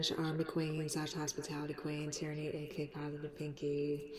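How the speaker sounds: blocked nose, congested voice; stuffed up. Real, not acted. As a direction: talk through a stuffed-up nose. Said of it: "so as you can hear, I'm pretty stuffed up".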